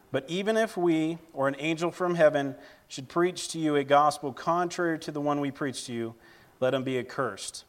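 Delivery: measured public Bible reading; scripture reading. Acted. Preacher reading Galatians to the church, formal scripture reading. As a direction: read it out clearly, phrase by phrase. Reads Galatians one aloud to congregation.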